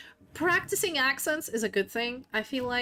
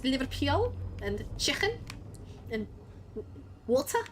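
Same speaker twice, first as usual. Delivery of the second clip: Scouse; 3 semitones higher, 4 dB quieter than usual. Shown as a demonstration. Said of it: "the only thing in Scouse I can do".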